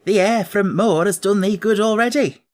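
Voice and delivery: lightly voiced Yorkshire housemaid, cheerful; a friendly country maid pleased with the girl; Martha the maid. Martha tells Mary the moor has done her good, lightly voiced.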